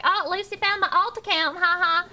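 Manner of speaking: mocking quote of chatter. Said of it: "and you were like".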